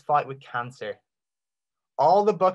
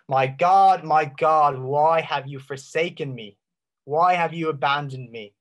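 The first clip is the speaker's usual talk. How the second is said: loud anguished cry, fading; 5 dB louder than usual. Retold or imitated. Preacher voicing Jesus on the cross, crying out loud. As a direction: cry it out to God. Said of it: "And so he cries out".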